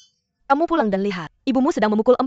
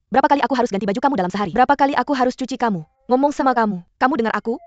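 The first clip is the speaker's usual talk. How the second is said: a fed-up mother firing questions; fast exasperated scolding; much faster than usual. Acted. Mother scolds her dirty child, fast and exasperated. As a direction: rattle off the complaints in a rush, nagging.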